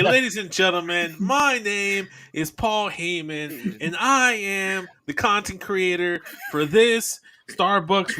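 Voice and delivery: slow, grand announcer intro, each word stretched; Paul Heyman announcing. Retold or imitated. Imagined Heyman introducing a coffee review, slow pompous announcer. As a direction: play it like a pompous hype man on the mic. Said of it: "He, he probably be like".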